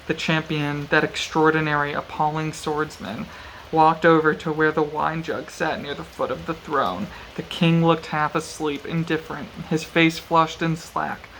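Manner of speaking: measured audiobook-style reading; story narration. A narrator's reading. Reading a brutal sword fight from the novel aloud, measured narration. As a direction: read it out evenly, with deliberate pauses.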